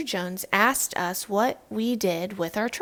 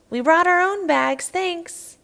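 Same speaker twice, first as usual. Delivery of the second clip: proud reply; 8 semitones higher, 8 dB louder than usual. Acted. Family at store checkout.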